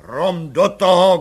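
the commissioner shouting an order at the clerk; shouted. A narrator's reading. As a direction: shout the command. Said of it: "křikl komisař".

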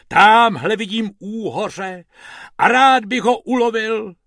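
high, loud poetic declamation; reciting verse. Acted. Bob starts making up verse by the sea, reciting. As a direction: declaim an improvised rhyme. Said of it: "z toho Bob začal básnit".

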